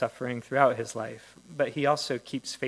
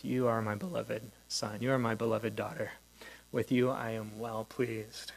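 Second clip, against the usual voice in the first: intimate blessing; 3 semitones lower, 4 dB quieter than usual. Acted. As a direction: say it gently, as if to one person. Listener imagines hearing the voice personally.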